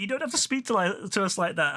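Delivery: high-pitched imitation of affronted protest; mock indignation. Group protesting to him at the exit door, mock indignant. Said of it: "they got so mad at me".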